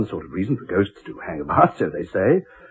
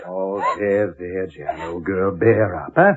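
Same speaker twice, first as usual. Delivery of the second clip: comforting; 5 semitones lower, slower than usual. Acted. Husband comforts crying wife.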